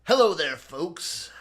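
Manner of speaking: booming ring announcer greeting; boxing ring announcer. Acted. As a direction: open loud like a fight-night host. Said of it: "weekly sportscast from X F L Jim".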